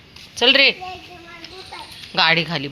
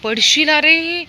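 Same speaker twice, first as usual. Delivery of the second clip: warning call; 10 semitones higher, 7 dB louder, much slower than usual. Real, not acted. Toddler running away.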